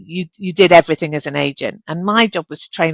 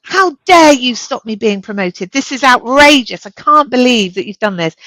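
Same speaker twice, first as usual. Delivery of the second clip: higher, louder indignant protest, retold; retold fury; 4 semitones higher, 3 dB louder than usual. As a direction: replay the furious complaint to the boss. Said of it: "I went to see him furious and said".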